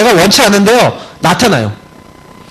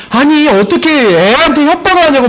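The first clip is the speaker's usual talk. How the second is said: retold reproach; 9 semitones higher than usual. Acts out wife's reproach.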